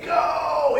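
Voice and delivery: high, loud cheer from the stands; cheering shout. Retold or imitated. Fan in the stadium cheering his runner: high shout. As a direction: yell it like a fan urging a runner on. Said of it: "you're screaming and saying".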